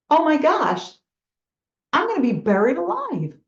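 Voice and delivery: a frightened donkey realising it is about to be buried alive; panicked donkey. Acted. Donkey in the hole panicking as dirt lands on it, mock alarm.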